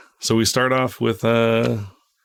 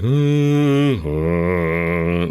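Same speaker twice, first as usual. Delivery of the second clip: organ noise; 3 semitones lower than usual. Shown as a demonstration. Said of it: "like, an organ noise".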